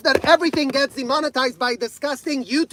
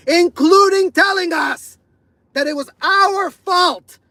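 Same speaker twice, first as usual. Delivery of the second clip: angry shout; 6 semitones higher than usual. Real, not acted. Ranting survivor yelling at the community, furious. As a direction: voice rising to a furious yell. Angry rant about abuse.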